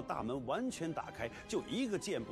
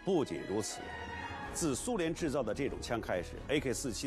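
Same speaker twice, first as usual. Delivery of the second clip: lively documentary narration; 4 dB louder than usual. Acted.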